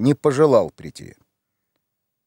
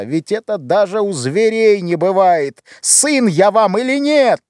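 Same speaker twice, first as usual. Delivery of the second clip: anguished cry; 6 semitones higher than usual. Acted. Сын в отчаянии кричит матери.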